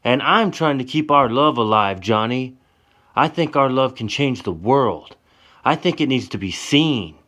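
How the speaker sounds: high, loud, exasperated; loud, desperate complaint; heated pleading. Acted. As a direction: let the frustration pour out. Tessa's heated argument continues.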